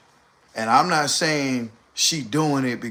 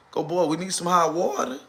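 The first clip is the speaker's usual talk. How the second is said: 1 mock demand; 5 semitones higher than usual. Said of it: "told her to come out".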